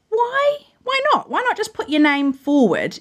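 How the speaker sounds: high, eager self-encouragement; talking yourself into it; excited. Retold or imitated. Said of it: "and I thought".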